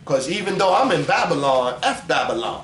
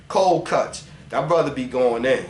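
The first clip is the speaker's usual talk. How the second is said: normal talking voice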